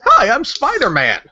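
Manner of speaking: slow, high hero introduction; clueless superhero intro. Retold or imitated. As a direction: announce yourself proudly like Spider-Man.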